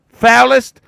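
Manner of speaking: Foulest punched high and loud; stress on Foulest. Real, not acted. Repeating his mood word to chat, stress on Foulest. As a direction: hit the word Foulest hard. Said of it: "foulest of fucking moods".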